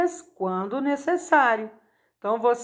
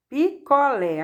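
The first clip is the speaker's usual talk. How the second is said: "Picolé" with the final "lé" stressed; tônica em LÉ; 3 semitones higher than usual. Shown as a demonstration. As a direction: lean on the "lé" that ends "Picolé". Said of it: "sendo a mais forte é o lé". ("Picolé" com a última sílaba forte)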